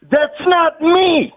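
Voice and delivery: indignant, high and drawn-out; offended, stretched-out protest; angry denial. Real, not acted. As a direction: deny it word by word, slow and indignant. Accused man angrily denies it.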